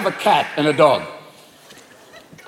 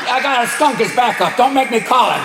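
ballsy raccoon; 4 semitones higher than usual. Acted. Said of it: "they look at you like".

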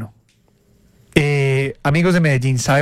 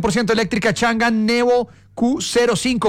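polished commercial read with punched key words; announcer reading a car ad; radio ad read; 5 semitones higher than usual. Acted. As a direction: sell it like a radio spot. Radio host reads car advert.

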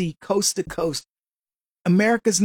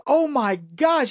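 amazed; 4 semitones higher, much slower than usual. Retold or imitated. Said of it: "he couldn't believe it".

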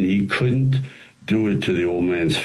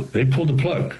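pulled said higher and punched; stress on pulled; 7 semitones higher than usual. Real, not acted. Telling the interviewer they really cut the power, stress on pulled. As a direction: hit the word pulled hard. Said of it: "Uh, no".

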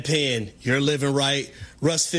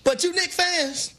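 mock preacher; 4 semitones higher than usual. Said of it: "I'm holding this Bible right now".

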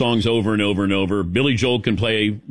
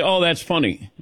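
polite nonlaugh; 3 semitones higher than usual. Retold or imitated. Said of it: "I don't want you to say".

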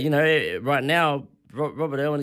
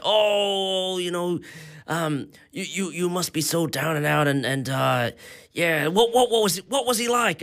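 lightly voiced gushing American stranger, pitched up; mock-earnest sympathy in a higher voice; 4 semitones higher than usual. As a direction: play the overly sympathetic tourist, voice raised. Mimicking stranger asking about Irwin.

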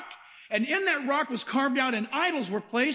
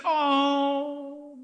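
mock cooing; 3 semitones higher, much slower than usual. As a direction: gush over the little lamb. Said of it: "just like you said".

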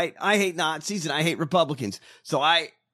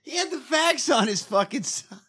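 whisper; 9 semitones higher than usual. Real, not acted. Aside while laughing.

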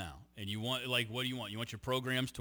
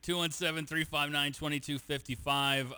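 reading out a phone number; 3 dB louder than usual. Shown as a demonstration. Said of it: "we have to take a break".

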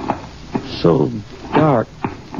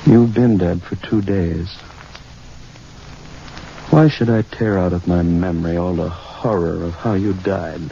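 grim and low; 5 semitones lower than usual. Acted. Grim realization after the flashback.

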